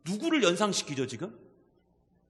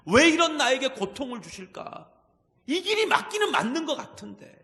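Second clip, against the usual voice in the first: confused pleading; 3 semitones higher, 4 dB louder than usual. Acted. Preacher voicing a confused believer questioning God, plaintive and building. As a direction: question God, each why more insistent. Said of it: "너무나 혼란스러울 때가 있어요".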